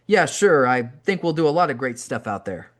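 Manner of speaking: hint of a cheery British wrestler; British accent. Davey answering the rookie, in a lightly put-on British accent. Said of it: "in his thick British accent".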